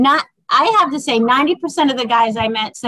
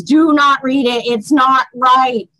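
slow emphatic warning; slower than usual. Retold or imitated. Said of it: "I'm like".

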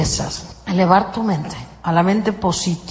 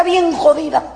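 whiny self-pity; mock complaining neighbour; 5 semitones higher than usual. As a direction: moan to your comadre. Gossip complaining to comadre.

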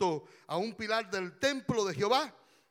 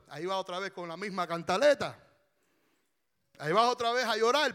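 fast, fed-up husband's complaint; mock impatient scolding; faster than usual. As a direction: rattle it off as if sick of the crying. Acts impatient husband, counterexample.

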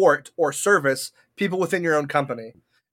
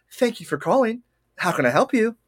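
lightly raised polite phone voice; customer service voice; 5 semitones higher than usual. Retold or imitated. Call-centre worker greeting a caller, a touch higher and polite. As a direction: answer like a friendly call-centre agent. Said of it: "I don't sound like that at all".

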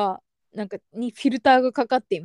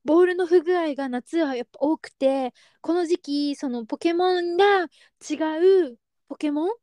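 shop-assistant voice; 4 semitones higher than usual. Retold or imitated. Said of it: "店員さんみたいな感じの".

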